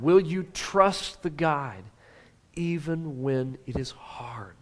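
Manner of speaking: slow, fading to a whisper on the end; hushed, urgent whisper; whispered question. Shown as a demonstration. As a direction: lean in and whisper the last words. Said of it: "Oh, this is important".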